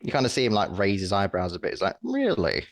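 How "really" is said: surprised. Acted. GM voicing Graham doubting.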